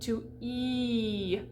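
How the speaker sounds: E held as a pure, closed "ee". Shown as a demonstration. Teacher demonstrating the French I, closed vowel. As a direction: close the mouth space down to a long "ee". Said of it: "close the space in the mouth".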